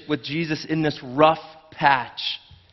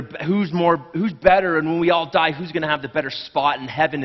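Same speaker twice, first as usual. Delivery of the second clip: mock competitive disciples; 3 semitones higher, 3 dB louder than usual. Disciples arguing who's greater.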